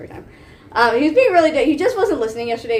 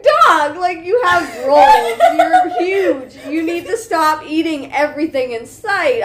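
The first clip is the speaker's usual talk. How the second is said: scolding the dog; 3 semitones higher, slower than usual. Retold or imitated.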